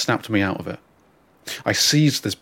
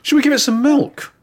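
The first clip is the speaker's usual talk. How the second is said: stepdad; 5 dB louder than usual. Retold or imitated. Stepdad voiced in story.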